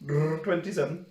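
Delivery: rolled brr, then the number; Bren on videophone. Pretend. Bren answering on the video phone, lightly put-on voice. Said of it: "Bren's not Welsh now, he's Turkish".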